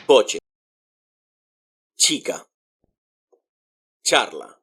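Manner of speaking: coche, chica, charla with a crisp ch; "KOH-cheh, CHEE-ka, CHAR-la" for coche, chica, charla; Spanish CH sound. Shown as a demonstration. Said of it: "it sounds like ch".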